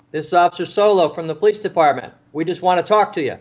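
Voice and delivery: officer calling to a man behind a door. Retold or imitated. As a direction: announce yourself down the hallway. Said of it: "called him out again".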